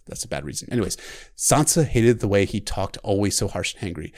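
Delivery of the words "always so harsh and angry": ordinary delivery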